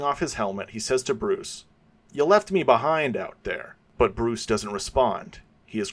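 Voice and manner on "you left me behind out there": higher, louder reproach; hurt complaint. Acted. Robin reproaching Bruce, higher and louder. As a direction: call him out for leaving you.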